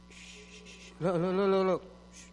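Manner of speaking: soft shushing, breathy shh; quiet hush, then soft look look. Real, not acted. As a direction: hush the room to draw focus. Hushing the congregation to look.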